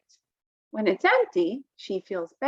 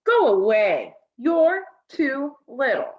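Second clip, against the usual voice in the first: scowling brush-off; 3 semitones higher, 3 dB louder, slower than usual. Acted. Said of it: "Felix scowled".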